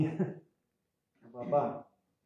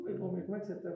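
friendly greeting; 3 semitones higher, much faster than usual. Retold or imitated. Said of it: "fala assim".

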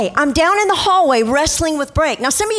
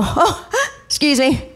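theatrical gasp, drawn-out excuse me; hammed-up sarcastic alarm; mock shock. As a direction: feign being appalled, slowly. Acts out sarcastic shock at hair.

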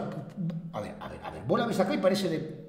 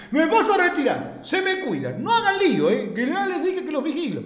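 laughing warning; 5 semitones higher than usual. Real, not acted. Laughing mock warnings to chat.

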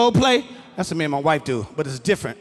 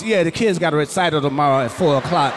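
offhand, lower everyday chatter mid-sex; regular voice; 5 semitones lower than usual. Retold or imitated. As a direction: say it like small talk, totally unbothered. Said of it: "talk to you in a regular voice".

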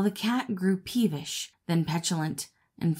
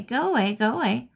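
chittering monkey; 5 semitones higher than usual. A narrator's reading. Monkey repeating itself at the dog, high bouncy chittering. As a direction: keep chattering, easing off. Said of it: "chittered the monkey".

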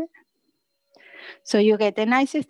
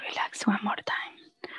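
soft cue; 7 dB quieter than usual. Real, not acted. Coach cueing the release.

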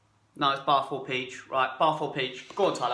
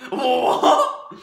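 surprised; 9 semitones higher, 8 dB louder than usual. Real, not acted. Shocked at friend's comment.

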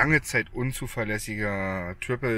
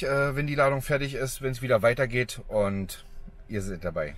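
outdoors, wind hitting the mic; 2 semitones higher than usual. Real, not acted. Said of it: "Sorry für den Wind". (Wind im Mikrofon)

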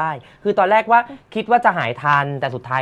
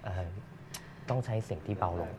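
whispered, much softer, showing how quiet he must speak; whisper demo; 8 semitones lower, 16 dB quieter than usual. Shown as a demonstration. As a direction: drop to a breathy whisper to show the soft voice. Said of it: "ปกติพี่ตูนก็เป็นคนพูดเสียงเบาอยู่แล้ว". (กระซิบเบาๆ สาธิตเสียงที่เบาลง)

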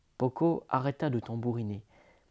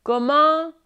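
higher voiced dialogue; parents talking; 12 semitones higher, 7 dB louder than usual. A narrator's reading. Father and distracted mother chatting, higher voice. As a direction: play the parents lightly.

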